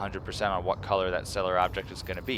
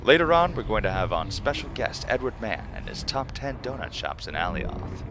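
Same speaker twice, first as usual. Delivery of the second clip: announcer voice; 4 semitones higher than usual. Acted. Announcing fake show lineup.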